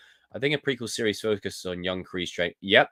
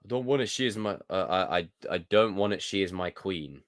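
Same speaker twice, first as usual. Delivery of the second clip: Yorkshire accent attempt; 3 semitones lower, 3 dB quieter than usual. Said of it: "Yorkshire, I'm not good with Yorkshire".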